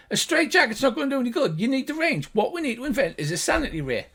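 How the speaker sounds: fast, high arguing gnome; high-pitched gnomish voice. Acted. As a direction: bicker quickly as a little gnome. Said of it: "the two high-pitched gnomish voices".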